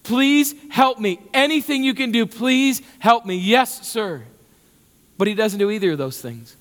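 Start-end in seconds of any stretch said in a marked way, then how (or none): 0.0-4.2 desperate plea. Pretend. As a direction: beg for help as if your life depends on it. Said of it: "so desperate that I would simply yell out".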